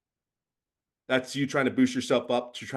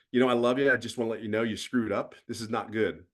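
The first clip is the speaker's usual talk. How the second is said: calm loving parent; faster than usual. Retold or imitated. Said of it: "the message where you're saying".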